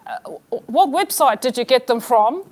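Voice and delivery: Australian husband, imitated; comic attempt at Australian; mock Australian accent. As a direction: ask it as a put-on Australian husband. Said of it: "I'm amazing at impressions".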